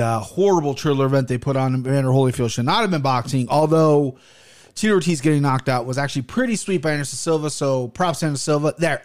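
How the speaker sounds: barely opening the mouth; talking with mouth closed. Real, not acted. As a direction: speak through a stiff, sore jaw. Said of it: "I can't open my mouth much".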